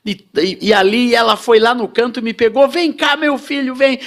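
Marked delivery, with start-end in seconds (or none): 2.7-4.0 crying mother coaxing. Retold or imitated. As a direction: coax him out, tearful. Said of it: "E uma mãe chorando".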